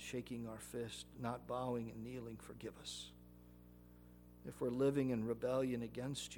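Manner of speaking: prayer. Acted. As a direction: pray humbly and gently. Leads a prayer.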